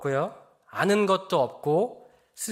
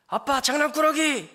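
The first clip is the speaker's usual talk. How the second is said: put-on higher, playful little-girl voice; a hint of a five-year-old's mock threat; child's threat; 9 semitones higher than usual. Father imitating his daughter teasing him, lightly higher child voice. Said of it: "가장 저를 위협했던 말이".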